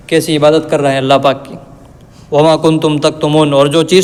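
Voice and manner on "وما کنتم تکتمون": slow, drawn-out chanted Arabic verse; Quran recitation. Acted. Teacher reciting God's words to students, slow chanted recitation. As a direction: recite it unhurried, like tilawat.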